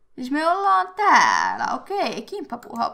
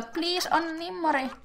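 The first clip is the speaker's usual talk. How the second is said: high, soft begging; playful pleading; 7 semitones higher, 5 dB quieter than usual. Pretend. Player begs a game celebrity for an autograph, playful pleading. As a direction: plead in a raised, wheedling pitch.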